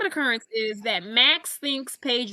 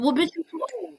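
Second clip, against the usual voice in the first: higher-pitched clapback, acted out; sassy retort; 5 semitones higher, faster than usual. Paige answers Max calling her too young, sassy comeback. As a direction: fire back a mock comeback.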